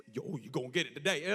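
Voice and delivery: low-voiced playful menace; mock threat. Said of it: "Like, not like that".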